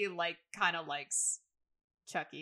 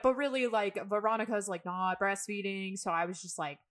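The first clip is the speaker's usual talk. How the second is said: flustered Kev; 3 semitones higher, 3 dB louder than usual. Retold or imitated. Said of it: "he's like, he's like".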